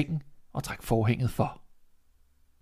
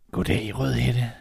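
slow, sly wolf voice; a wolf drawing out the greeting, slowly; much slower than usual. Acted.

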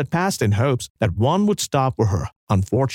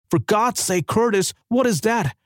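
astonished; 8 semitones higher than usual. A narrator's reading. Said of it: "he asked in astonishment".

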